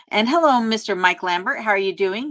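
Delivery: excited hello. Real, not acted. Greeting a viewer who joined.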